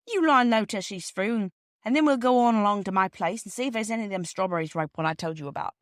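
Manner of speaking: a hint of a hearty railway porter; Perks the porter.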